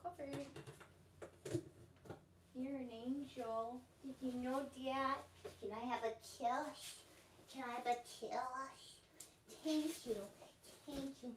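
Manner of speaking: cooing pet talk. Real, not acted.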